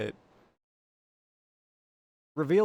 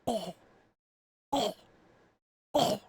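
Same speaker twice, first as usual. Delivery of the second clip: faint pufferfish noise; 6 semitones higher than usual. Retold or imitated. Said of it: "faintly through the open door".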